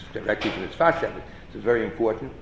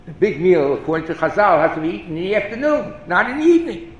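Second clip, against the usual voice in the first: rising higher and louder, insisting; emphatic insistence; 9 semitones higher, 7 dB louder than usual. Retold or imitated. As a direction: press the point harder with each phrase. Retelling the Rebbe's pointed question.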